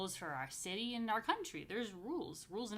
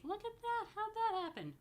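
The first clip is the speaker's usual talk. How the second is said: much higher, genuinely taken aback; surprised. Real, not acted. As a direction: react to the odd-shaped bread with surprise. Surprised at misshapen challah.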